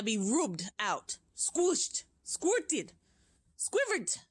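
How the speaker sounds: witch crying out. Acted. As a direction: rant with disgust at the children. Witch issues her orders.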